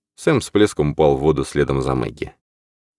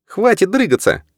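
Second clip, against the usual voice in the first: shouting. Acted. Norman shouts at Ralph.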